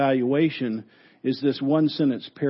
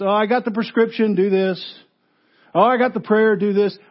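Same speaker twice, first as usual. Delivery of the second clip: higher, breezy dismissive voice; mocking helper; 5 semitones higher, 4 dB louder than usual. Preacher mocks helpers who only hand out advice, breezy. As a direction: toss off advice from above.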